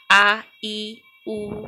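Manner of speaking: आ, ई, उ said briefly, each cut short; short vowels. Shown as a demonstration. Teacher showing students the short Hindi vowels, said briefly. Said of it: "हमें बहुत कम समय लगता".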